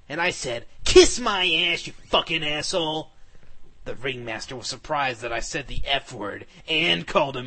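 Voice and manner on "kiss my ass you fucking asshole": defiant yell. Acted. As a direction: spit it back at him. Defiant insult at gunman.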